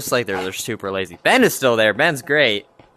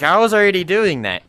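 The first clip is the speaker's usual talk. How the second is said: higher and louder indignant protest; mock defensive whine; 8 semitones higher, 5 dB louder than usual. Coworker defending herself to the vlogger. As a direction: insist you had it handled. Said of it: "she's like".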